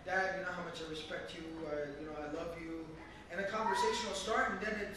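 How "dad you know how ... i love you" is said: soft, low respectful appeal; respectful opening. Acted. Son opening a hard talk with his father, respectfully. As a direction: ease gently into it with Dad. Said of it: "So start off by".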